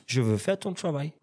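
imitating his own bad French accent; halting plea in badly accented French; broken French accent. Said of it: "Accent pété".

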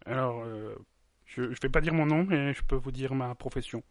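lightly disguised anonymous witness; a hint of a put-on witness voice. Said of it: "Ma, ma voix est modifiée".

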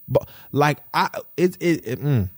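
faltering, emotional stumbling over words; halting, as feeling gets in the way; getting choked up. Real, not acted. Thinking about partner's weight loss, getting a little emotional. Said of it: "getting a little emotional".

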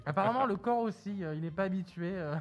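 muffled behind a mask; talking through a mask; through a face mask. Real, not acted. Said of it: "il parle avec son masque".

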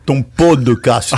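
"podcast" drawn out slowly with added vowels, "po-de-cas-te"; mock Marseille "podcast", every syllable sounded; Marseille pronunciation. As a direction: stretch "podcast" into southern "po-de-cas-te". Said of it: "l'accent, l'accent marseillais".

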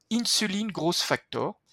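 English term in a French accent, slowly; French accent on the English words. Real, not acted. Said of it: "Désolé pour mon accent anglais".

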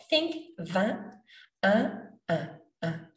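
"un" nasal like in "vin"; French nasal "un" drill. Shown as a demonstration. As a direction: repeat "un" through the nose. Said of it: "This is the sound you wanna go for".

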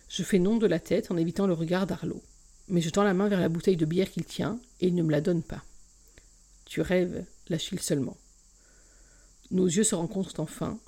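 expressive reading of a romance novel, first person; story narration. A narrator's reading. Podcast host reading a novel chapter aloud, expressive narration. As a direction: read the excerpt to podcast listeners, voicing each character.

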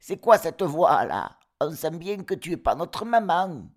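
cris aigus et forts d'enfants; démasquer le loup en criant; chevreaux qui crient. Acted. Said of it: "crièrent-ils". (chevreaux criards)

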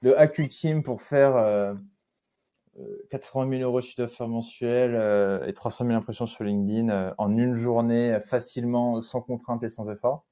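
voix de pub racoleuse, plus lente, plus forte; parodie putaclic. Shown as a demonstration. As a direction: vendre le titre comme une arnaque. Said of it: "c'est le putaclic". (imite un titre putaclic d'un ton de pub exagéré)

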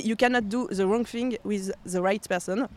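slow English with a French accent; phrase anglaise lente avec l'accent français. Real, not acted. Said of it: "Désolé pour, euh, mon accent anglais".

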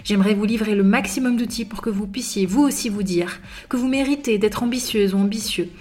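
upbeat announcer read over music; podcast intro read. Acted. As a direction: sell the show like a polished radio intro. (lecture d'introduction de podcast, ton d'animatrice)

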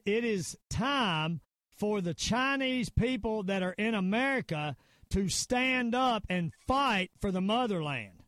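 slow, deliberate proclamation; measured call to arms, each phrase set apart; retold rallying call. Diplomat calling his people to fight, solemn proclamation.

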